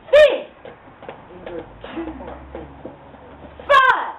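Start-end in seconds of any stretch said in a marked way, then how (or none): 0.1-0.5 high, loud bellowing giant. Acted. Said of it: "And Dewey goes". 3.6-4.1 high, loud bellowing giant. Acted. Dewey bellowing at monster.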